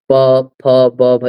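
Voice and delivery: प फ ब भ sounded one by one with the lips closing; lip letters demo. Shown as a demonstration. Teacher showing the student that lips touch on प फ ब भ. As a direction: pop each lip letter on its own. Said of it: "इसमें देखो ओठ".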